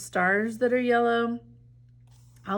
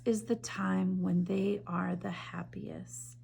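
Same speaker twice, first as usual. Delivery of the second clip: whisper; 2 semitones lower, 7 dB quieter than usual. A narrator's reading. Quiet moment of story.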